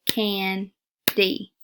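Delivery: can, then D, split with a pause; split into syllables. Shown as a demonstration. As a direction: say can and D as two separate beats. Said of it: "So you would say".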